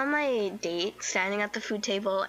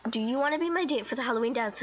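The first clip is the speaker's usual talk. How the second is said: quick, more pressed question; insistent repeat; faster than usual. Retold or imitated. Girl repeating the invitation to her crush, hurried and insistent. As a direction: repeat it fast, pushing for an answer. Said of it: "I said it last time".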